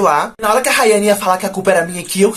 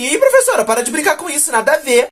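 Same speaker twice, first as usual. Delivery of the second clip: put-on annoyed girl; 6 semitones higher than usual. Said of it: "Ele falou assim".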